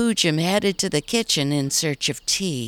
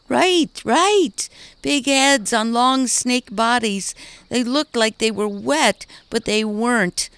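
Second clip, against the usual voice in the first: higher, excited little voice; child doll Oni, eager; 6 semitones higher, 3 dB louder than usual. Acted. A lightly voiced small doll recalls the snake monsters. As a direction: rush it out like a scared kid.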